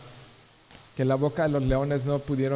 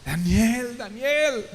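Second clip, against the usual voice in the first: high, urgent call of a worried king; a king calling out, fearing for his friend; calling out anxiously; 9 semitones higher, much slower than usual. Acted. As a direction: call his name down into the pit. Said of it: "llamó a voces a Daniel con voz tri".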